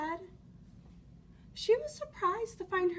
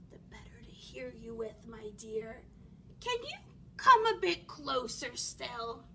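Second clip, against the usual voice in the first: wolf posing as granny; 4 semitones lower than usual. Acted. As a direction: coax the child closer.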